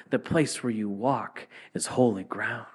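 whispered holy words; hushed. Acted. Preacher quoting God to Moses, in a hushed whisper. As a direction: breathe it out in a reverent whisper.

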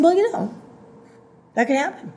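softly resigned, open to it; surrendered. Shown as a demonstration. Preacher models accepting the worst, softly surrendered. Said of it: "in a surrendered way".

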